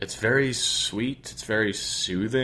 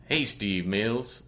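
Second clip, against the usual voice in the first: bad impression of a singer; 5 dB quieter, much slower than usual. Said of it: "That's the worst Doctor John ever".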